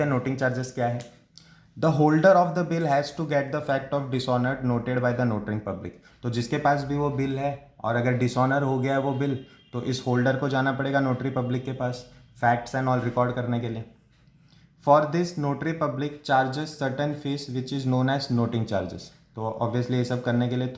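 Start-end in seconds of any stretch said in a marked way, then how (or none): 1.8-5.9 slow, deliberate textbook read-out; measured dictation-style reading; reading out a definition. Real, not acted. 14.8-19.0 slow, deliberate textbook read-out; measured dictation-style reading; reading out a definition. Real, not acted.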